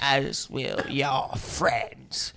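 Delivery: slow, low, menacing Emperor; weighty commanding emperor. Acted. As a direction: drag it out like a dark lord. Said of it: "in the Emperor's voice".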